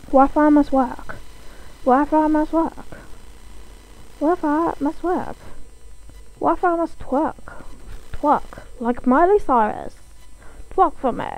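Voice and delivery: silly strange chanting voice. Pretend. Pleading with the Wi-Fi to work, playful strange voice. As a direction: repeat it like an odd little incantation. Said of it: "Very strange voice".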